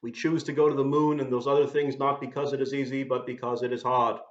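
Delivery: lightly put-on New England Boston accent; a hint of old Boston speech; imitated Boston accent. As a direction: attempt a Kennedy-style Boston accent, dropping the R. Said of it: "my best imitation of the Boston accent".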